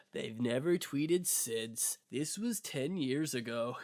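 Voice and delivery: slow, measured mock documentary voice; mystery-video narrator. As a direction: lightly parody a conspiracy-video narrator. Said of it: "It'd be like".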